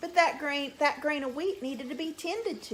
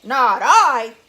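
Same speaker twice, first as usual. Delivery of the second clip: very loud, gruff dog voice; gruff it out like a big bark; 15 dB louder than usual. Shown as a demonstration. Storyteller models the dog's reply for children, loud and gruff. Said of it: "He'd sort of gruff it".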